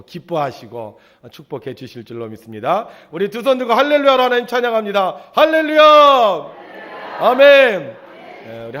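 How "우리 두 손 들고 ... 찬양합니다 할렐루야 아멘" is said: rallying shout. Real, not acted. Preacher rouses congregation to praise with raised hands, rallying shout. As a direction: shout out praise to lift the room.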